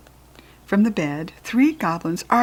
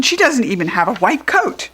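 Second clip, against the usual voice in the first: goblin shout; 5 semitones higher, 5 dB louder than usual. Acted.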